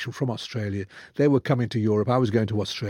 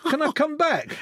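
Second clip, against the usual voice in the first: mock plea. Real, not acted. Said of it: "pleading joke".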